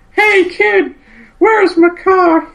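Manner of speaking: put-on high, slow old prospector voice. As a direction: play a grizzled old miner. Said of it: "old prospector dude".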